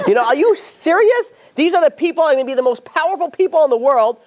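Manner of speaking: high, loud, incredulous and laughing; are you serious, said half laughing; outraged disbelief. Real, not acted. Outraged at the debate, a laughing high incredulous rant.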